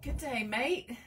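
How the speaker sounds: light attempt at an Australian greeting; Australian accent. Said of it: "in an Australian voice".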